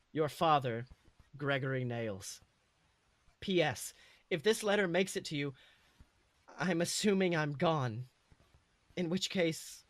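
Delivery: father writing to his son, lightly voiced and sincere; father's letter. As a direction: read it like a father's earnest parting words. Father's letter read aloud.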